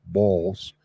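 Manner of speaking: a hint of Long Island or Philly accent. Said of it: "Long Island accent".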